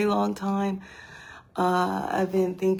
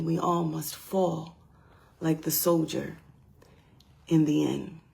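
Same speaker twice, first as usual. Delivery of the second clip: measured spoken-word reading with long pauses; grave poem reading, weighted phrases; poetry recital. Acted. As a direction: recite it solemnly, letting each line end fall away. Recites own war poem.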